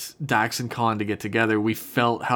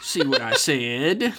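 slow, put-on voice with a laugh in it; playfully vindicated, drawn out; mock told-you-so; slower than usual. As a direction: tease it out slowly. Voicing the smug brother.

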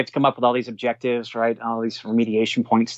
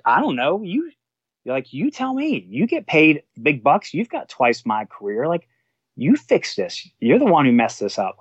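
retelling an exasperated outburst, much higher pitched; angry; 4 semitones higher than usual. Retold or imitated. Firefighter tells his captain to fix it, retold angry exasperation. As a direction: throw it back at him, fed up and incredulous. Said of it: "I was so angry".

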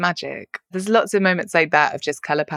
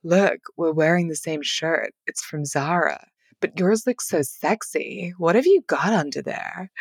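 slow, softer American drawl, a light imitation; Tessa Moshfegh drawl; 3 dB quieter than usual. Imitating the author's American drawl to her co-host, slow and soft. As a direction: drawl it out slowly in a mock American accent. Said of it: "she said in her amazing drawl".

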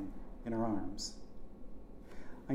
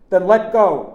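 high, very loud yell; screamed order; 8 semitones higher, 18 dB louder, slower than usual. A narrator's reading. Uncle telling nephew to release him, screaming. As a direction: scream it back without hesitating. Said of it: "Chick screamed".

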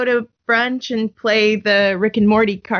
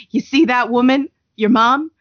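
puberty monster; 4 semitones higher, 4 dB louder than usual. Retold or imitated. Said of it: "her monster says to her".

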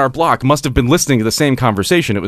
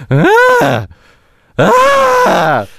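short high yelp, louder than his talk; imitated distant scream; 5 dB louder than usual. Recreating the noise for friends, a high yelp. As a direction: mimic a faint cry in the night. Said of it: "it sounded like".

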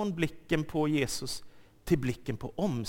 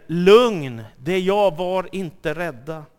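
calling out calm; 8 dB louder than usual. Acted. Jesus calms frightened disciples.

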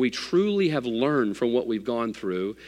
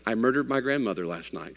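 under his breath; 3 semitones lower, 6 dB quieter than usual. Retold or imitated. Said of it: "he just says under his breath".

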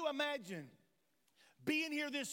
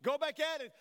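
louder, insistent urging to a grandson; firm louder push; 2 semitones higher, 5 dB louder than usual. Retold or imitated. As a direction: push him back out to play, firmer now. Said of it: "I said".

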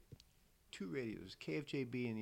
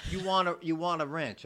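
higher, louder taunting redneck; redneck retort; 8 semitones higher, 10 dB louder than usual. Retold or imitated. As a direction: throw it back like a cocky coworker. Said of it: "white trash types".

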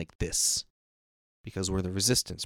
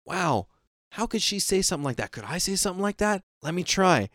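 lightly voiced mother, much higher; mom's voice; 9 semitones higher than usual. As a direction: try on mom's voice, pitched up. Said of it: "In her voice".

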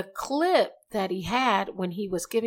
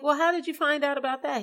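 surprised; 8 semitones higher, 3 dB louder, faster than usual. Retold or imitated. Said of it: "I'm like".

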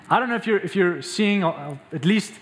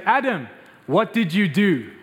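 stern accusing God. Shown as a demonstration. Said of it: "That's how we hear the story".

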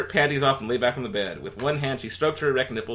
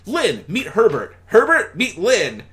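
high, louder, slow mock-formal Alf; Alf introducing; 10 semitones higher, 9 dB louder than usual. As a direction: make a grand introduction.

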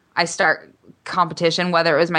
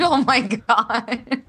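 slow, stretched through a real yawn; mid-yawn; 4 semitones higher, much slower than usual. Real, not acted. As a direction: let the yawn pull the words out.

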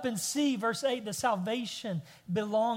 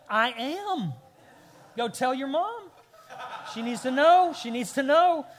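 higher, louder, proud-dad joke; hammed-up self-congratulation, building louder; mock boasting; 4 semitones higher, 7 dB louder than usual. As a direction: crow playfully over a small triumph. Dad boasting jokingly after fixing toy.

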